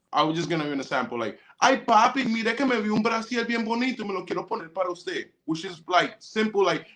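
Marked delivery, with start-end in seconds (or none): 1.6-5.3 higher-pitched Colombian woman sweet-talking her man; Colombian Spanish. Acted. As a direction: put on Colombian Spanish, starting high. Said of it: "a Colombian woman will talk to you in the Spanish".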